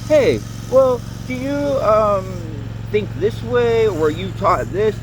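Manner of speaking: a hint of a nosy stranger fishing for clues; mock questioner. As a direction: play a sly asker probing. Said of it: "in order to find out".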